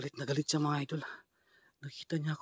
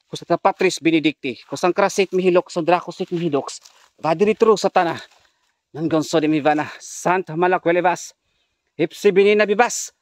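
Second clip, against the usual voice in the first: mock incantation; 2 semitones higher than usual. Mock Latin exorcism prayer.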